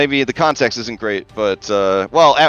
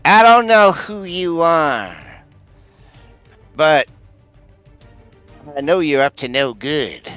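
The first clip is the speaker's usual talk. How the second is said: dark whisper behind you; 4 semitones higher than usual. Acted. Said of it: "you hear the voice from the shadows say".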